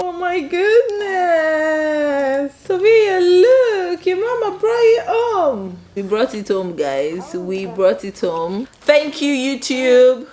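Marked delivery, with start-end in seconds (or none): 0.0-5.8 high, loud, tearful joy; tearful shout of joy to her daughter; overjoyed crying. Real, not acted. Tearful joy over the award. 8.8-10.3 higher, louder heartfelt thanks; emotional thanks. Real, not acted.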